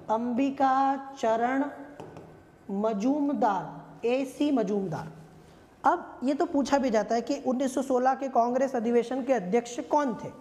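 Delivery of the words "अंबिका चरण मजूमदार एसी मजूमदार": spells out "Ambika चरण Majumdar" word by word, very slowly; slow name dictation. Shown as a demonstration. Teacher slowly dictating a president's name to students. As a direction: say the full name slowly so students can note it down. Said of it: "इसके अध्यक्ष थे AC Majumdar".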